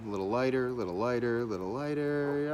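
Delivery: lightly acted, quick self-talk while working; hint of someone concentrating on fine shading; artist absorbed in shading. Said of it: "somebody sitting there and going".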